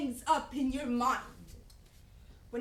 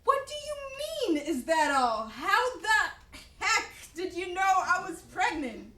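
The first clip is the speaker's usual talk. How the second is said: tearful indignation; 4 semitones higher, 3 dB louder than usual. Real, not acted. Wife tearful then laughing.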